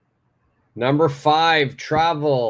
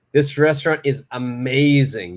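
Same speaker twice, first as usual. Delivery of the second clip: excited recommendation, "amazing" stretched long; emphatic AMAZING. Shown as a demonstration. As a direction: stress and lengthen "amazing". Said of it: "pay attention to how I said it".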